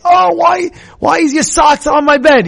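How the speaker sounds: imitating a parent yelling about socks; irritated parent. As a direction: snap at the kid over the socks. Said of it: "A person can be makpid".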